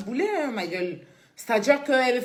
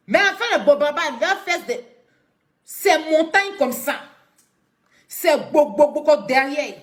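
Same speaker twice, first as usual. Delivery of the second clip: higher, louder gushing; gushing over the dancers, higher and louder; excited praise; 4 semitones higher, 5 dB louder than usual. Real, not acted. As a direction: hype it up with relish. Mock-praising Bobaraba dancers.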